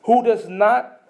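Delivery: slow, deliberate weighty reading; slow scripture reading. Acted. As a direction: let each phrase of the verse land. Reading scripture slowly, emotionally.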